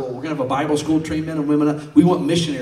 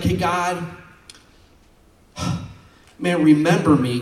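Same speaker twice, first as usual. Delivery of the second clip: mild plea; 5 semitones higher, 4 dB louder than usual. Retold or imitated. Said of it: "he's like".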